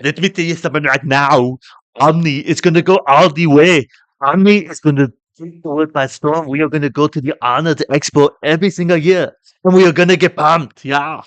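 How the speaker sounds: hyped-up ad announcer voice; energy drink ad. Retold or imitated. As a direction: sell it like a pumped energy drink commercial. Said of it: "That was an amazing impression".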